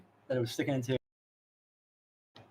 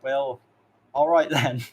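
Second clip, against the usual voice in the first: sarcastic; 5 dB louder than usual. Retold or imitated. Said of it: "he just sarcastically did it".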